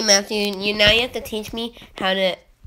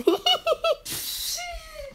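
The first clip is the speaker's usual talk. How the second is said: very high, softer squealed giggle; odd giggle; 7 dB quieter than usual. Real, not acted. Friend asked what laugh that is, high odd giggle. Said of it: "What laugh is that".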